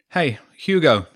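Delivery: loud, drawn-out call. Acted. James calling after Hugo to apologise, loud. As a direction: call across the playground. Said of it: "he called out".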